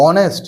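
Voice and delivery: অনেস্ট starting straight on the vowel; silent h. Shown as a demonstration. Teacher showing students how honest is pronounced, silent h. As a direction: say অনেস্ট with no h sound. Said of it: "উচ্চারণটা কি করছি?".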